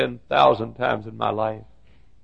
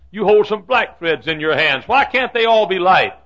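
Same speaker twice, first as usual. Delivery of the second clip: raised, insistent questioning; child's earnest protest; 5 semitones higher, 6 dB louder than usual. Acted. Child questioning mother about her tangled threads, raised pleading voice.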